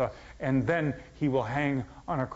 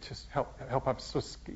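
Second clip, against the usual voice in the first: frightened plea; 5 dB quieter than usual. Retold or imitated. Imagined frightened plea of Jesus.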